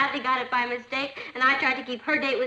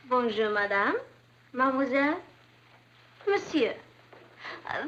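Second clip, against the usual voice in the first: playing a French waitress. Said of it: "I'll be a waitress".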